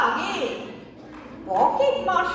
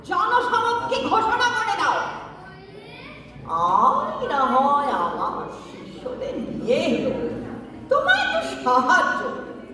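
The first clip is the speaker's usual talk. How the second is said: laughing; 3 semitones higher than usual. Acted. Guru laughing while commanding.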